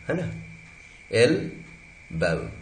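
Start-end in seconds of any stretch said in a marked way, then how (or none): 1.1-2.5 "एल्बो" split slowly into "el", pause, "bow"; syllable-by-syllable. Shown as a demonstration. Teacher breaking the word up for students, syllable-by-syllable. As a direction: break "एल्बो" into two slow, separate syllables. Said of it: "एल्बो दो syllable का word".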